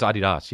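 "Adidas" said as AH-dee-dahs; mock-German pronunciation. Kid insisting to his classmate, "Adidas" as German AH-dee-dahs. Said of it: "the kid would call it Adidas".

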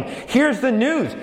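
slow, drawn-out proclaiming; a hint of a herald's call; herald's proclamation. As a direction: announce it like a war messenger, slowly. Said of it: "messengers out who would proclaim".

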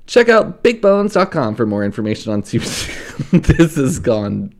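upbeat sponsor read, lightly pushed. Acted. Host reading a sponsor spot to listeners, cheerful ad read. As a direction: sell the dog treats like a podcast host.

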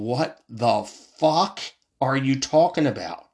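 drawn-out, slow disbelief; incredulous. Retold or imitated. Ranting vlogger telling viewers how he reacts to Democrats, slow and incredulous. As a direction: stretch it out like you can't believe your ears. His own retold disbelief.

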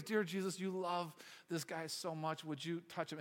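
quiet, earnest imitation of a prayer; praying. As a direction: pray gently over someone, slowing down. Acts out girl's prayer over boy.

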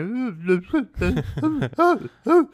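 high wailing sob sound; imitated sobbing. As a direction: act out crying your eyes out. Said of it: "just, like, crying my eyes out".

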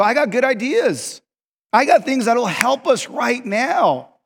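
high, drawn-out plea; frustrated insistence. Retold or imitated. Overlooked worker pleading for his ideas, frustrated. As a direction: insist slowly, wanting to be heard. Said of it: "you get so frustrated".

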